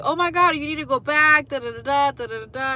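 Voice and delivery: put-on high, loud squealing girl; gushing stranger. Mocking the stranger squealing over the tattoo artist, high excited. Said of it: "And she was like".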